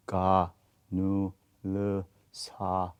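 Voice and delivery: light, barely touched ga nu le sa; softened Korean onsets; soft diluted consonants. Shown as a demonstration. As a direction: let each consonant melt into its vowel. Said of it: "diluted from the original sound".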